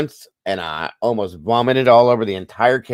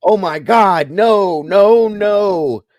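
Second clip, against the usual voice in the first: much higher, louder squeal of horrified disbelief; a little boy recoiling in shock at eating possum; shocked kid; 12 semitones higher, 6 dB louder, much slower than usual. Retold or imitated.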